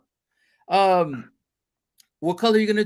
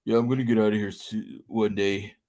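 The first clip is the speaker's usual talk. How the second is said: mock dorky rocker; 9 semitones lower, 3 dB quieter than usual. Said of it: "He's like a rocker".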